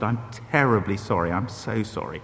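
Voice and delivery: low, soft retold apology; hushed re-enacted embarrassed sorry. Embarrassed apology to headmaster's wife.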